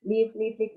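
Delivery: repeated "live" with short I, like "liv"; crisp repeated "liv" for "live"; correct "live". Shown as a demonstration. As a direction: drill "live" as quick "lif, lif". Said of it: "Bilangnya live".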